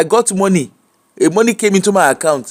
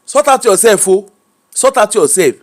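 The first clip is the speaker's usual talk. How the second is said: put-on Yoruba accent; 2 semitones higher than usual. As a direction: press it home in a Yoruba accent. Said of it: "you like my Yoruba accent".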